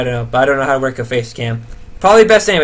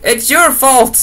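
mock retort; 8 semitones higher, 4 dB louder, slower than usual. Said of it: "And it's like".

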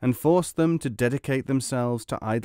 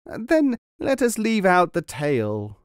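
higher, slow howl of protest; 7 semitones higher, 3 dB louder than usual. A narrator's reading. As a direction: howl it, drawn out in pain. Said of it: "howled the other".

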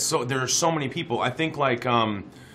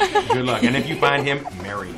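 laughing; 5 dB louder than usual. Real, not acted. Joking through laughter about crush.

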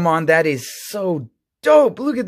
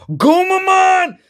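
high, drawn-out excited call; real burst of card-pack excitement; calling out the card name, thrilled; 5 dB louder, slower than usual. Real, not acted. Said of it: "I don't know why I got excited".

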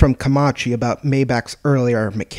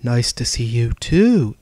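sarcastic; slower than usual. Acted. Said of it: "said Dezeru sarcastically".

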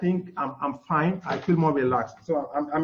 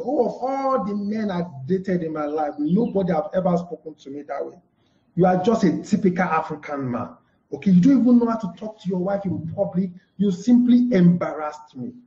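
mild angry wife. Shown as a demonstration. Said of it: "you get angry at your spouse".

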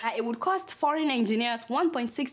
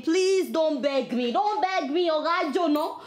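mock outrage.

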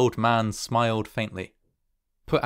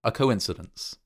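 hesitant stammer, rising on the repeat; 4 semitones higher than usual. A narrator's reading. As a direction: stumble and repeat yourself uneasily. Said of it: "stammered the old man".

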